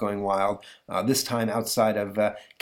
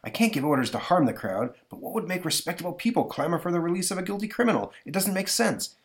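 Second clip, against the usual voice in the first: higher, puzzled official; a touch of exasperated jail warden; lightly voiced warden; 9 semitones higher than usual. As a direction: protest in mild bafflement, pitch climbing. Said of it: "the warden of the jail, who says".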